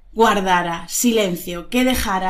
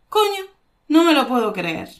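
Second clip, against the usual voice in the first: disbelieving; 3 semitones higher than usual. Shown as a demonstration. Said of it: "no lo habías pensado".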